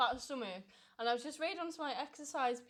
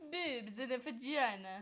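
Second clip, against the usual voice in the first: slow, plummy upper-class English; posh voice; 4 dB quieter, slower than usual. Shown as a demonstration. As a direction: say it like a posh lady. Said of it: "in, like, a really posh voice".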